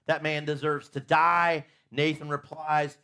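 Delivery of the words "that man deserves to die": angry verdict. Acted. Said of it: "David burns with anger".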